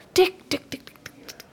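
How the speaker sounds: whispered tik tik tik, fading away; ticking sound. Acted. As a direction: mimic a ticking clock, dying to a whisper. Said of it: "Dit is mijn journalistieke instinct dat je nu hoort".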